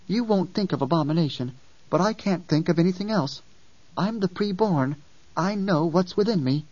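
put-on child voice, calm and firm; lightly voiced young girl, cold resolve. Ganima explains herself.

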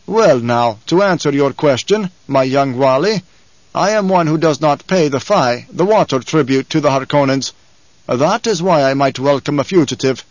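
lightly voiced commanding tribesman; tall desert leader, measured challenge. Tall man offers fugitives a welcome, measured challenge. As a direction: address the boy firmly, with measured authority.

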